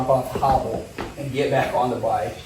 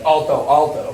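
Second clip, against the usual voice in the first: retold yelling; 2 semitones higher, 6 dB louder than usual. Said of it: "they were just yelling".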